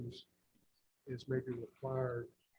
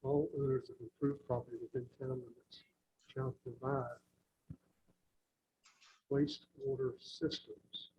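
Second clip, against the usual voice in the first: dictating. Real, not acted. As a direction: read it back clause by clause, deliberately. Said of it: "can you read that back to me right quick".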